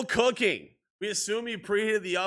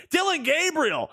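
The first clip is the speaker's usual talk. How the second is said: higher-pitched stab at a London broadcaster; attempted London broadcaster; 4 semitones higher than usual. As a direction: try a London sportscaster accent, half-committed. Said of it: "I literally tried to do it right there".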